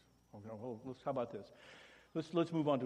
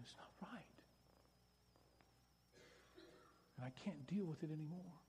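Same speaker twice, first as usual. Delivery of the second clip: soft, hurt plea to a partner; softly pleading with an angry partner; 3 semitones higher, 5 dB quieter than usual. Shown as a demonstration. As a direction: quietly tell them how much it hurts.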